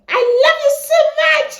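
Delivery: fiery Nigerian delivery; Nigerian accent. Shown as a demonstration. Vlogger showing off the Nigerian version, excited Nigerian accent. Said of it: "Our own is fire".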